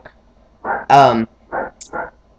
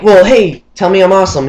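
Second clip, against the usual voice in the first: gloating demand; 5 semitones higher, 6 dB louder than usual. Retold or imitated. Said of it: "so I was like".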